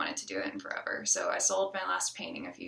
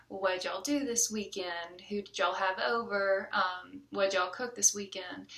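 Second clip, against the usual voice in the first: thicker Southern accent. Shown as a demonstration. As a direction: lean a little into your home Southern accent, as if chatting with your parents. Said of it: "So it gets a little bit thicker like that".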